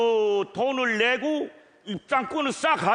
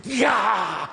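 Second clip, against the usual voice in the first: excited; 5 semitones higher, slower than usual. Acted. Tastes the soybean paste.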